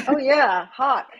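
excited spotting. Retold or imitated. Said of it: "It's like".

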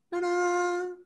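high, bright-toned ta-da fanfare; playful magician's flourish; magic reveal. Acted. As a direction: announce the trick like a showman. Magic trick reveal to kids.

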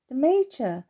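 a puzzled echo, voice lifted; surprised question. Acted. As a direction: ask it as if caught off guard. Timmy surprised at the news.

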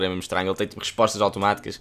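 ordinary talk, nothing marked

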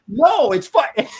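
hammed-up annoyed customer; frustrated caller. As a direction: drag it out in exasperation. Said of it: "And he'd go".

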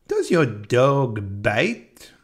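put-on very slow, drawn-out French accent; Clouseau's French accent, each word stretched out. Comedian playing a French inspector asking about a dog, French accent. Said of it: "says in his French accent".

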